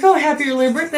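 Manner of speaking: high, bright mock cashier greeting; imitating the chirpy dispensary girl. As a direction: play the friendly dispensary girl. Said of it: "she's like".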